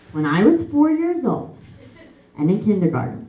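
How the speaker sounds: a hint of a prim little girl telling a sad tale; mock prim storybook child. Mocking her nanny's tale in a prim child voice. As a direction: innocent storybook child, lightly played. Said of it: "Bitch, you didn't talk like that".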